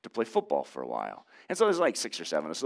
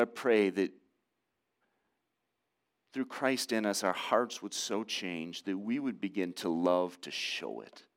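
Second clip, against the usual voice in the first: closing prayer. Real, not acted. Pastor praying over his congregation, hushed and earnest.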